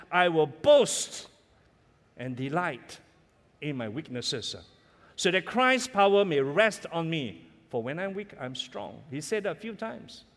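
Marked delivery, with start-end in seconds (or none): 0.1-9.0 scripture recital. Retold or imitated. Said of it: "Apostle Paul says".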